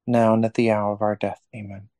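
steady reverent prayer voice; prayer recitation. Acted. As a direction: recite it like a rosary leader. Leads a rosary prayer.

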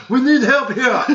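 high, loud, laughing squeal; mock accent voice. Asian kid quoted, laughing.

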